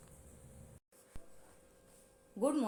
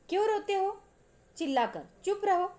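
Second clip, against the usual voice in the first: put-on raised, louder scolding of crying boys; angry scolding; 6 semitones higher, 4 dB louder than usual. Raat Rani scolds the crying boys, angry and loud. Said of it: "रात रानी गुस्से से कांपने लगती है".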